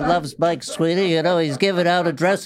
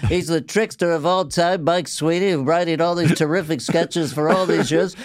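Regis impression. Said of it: "I like doing Regis Philbin".

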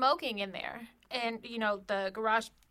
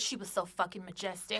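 Napoleon Dynamite impression; 4 semitones lower, 8 dB quieter than usual. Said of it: "'Cause he sounded like Napoleon Dynamite".

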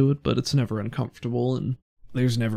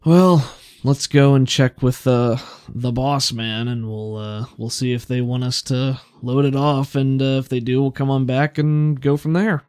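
guard voice; 5 dB louder than usual. Acted. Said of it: "the other one pauses".

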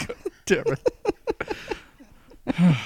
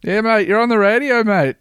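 hyped-up radio presenter, louder and higher; matey radio host; 8 semitones higher, 7 dB louder than usual. Acted. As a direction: humour the caller with big radio-host matiness.

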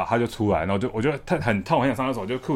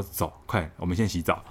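put-on hushed scheming kids; conspiratorial hush; 4 semitones lower, 6 dB quieter than usual. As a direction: keep it low like plotting a prank. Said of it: "我跟我表哥就说".

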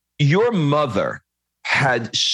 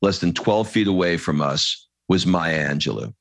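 measured storytelling read, calm and even; reading aloud; 4 semitones lower than usual. Acted. Host reading a moving passage to his guest, steady storytelling read.

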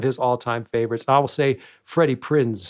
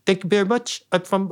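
lightly imitated foreign man accent; a hint of a higher foreign man voice; Andy Kaufman; 4 semitones higher than usual. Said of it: "that foreign man voice".

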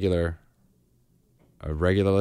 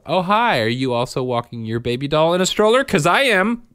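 put-on higher, louder chirpy little-girl voice; mock toddler voice; 7 semitones higher, 4 dB louder than usual. Host voicing toddler pushing her doll stroller, high mock-chirpy voice. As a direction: play the proud toddler greeting a neighbor. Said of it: "This is her walking down the street going".

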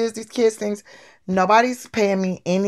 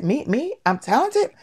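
higher, sharply rising questions; acted disbelief; 4 semitones higher than usual. Girl told she is talented for the first time, incredulous. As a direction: play astonished at the praise, without raising volume. Acting disbelief at being praised.

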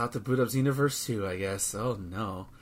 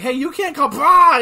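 mock android yell; 11 semitones higher, 9 dB louder than usual. Androids shouting at counter clerk.

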